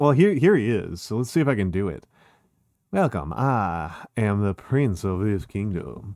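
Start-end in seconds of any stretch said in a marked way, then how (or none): 2.9-6.2 slow, drawn-out southern drawl. Asked to give Ralsei a southern accent, voicing him: Ralsei with a southern accent. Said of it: "Give Ralsei a southern accent".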